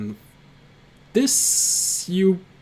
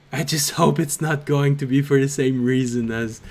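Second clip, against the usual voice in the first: lightly voiced kobold, wry then eager; understated kobold, self-deprecating then keen; kobold Grim. GM voicing kobold following player.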